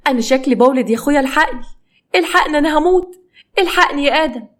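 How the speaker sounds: high, urgent mock cry for help; feigned labour pain. Wife begging her husband for help, feigned panic in pain. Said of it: "بدأت تمثل إن هي بتتوجع وتصرخ".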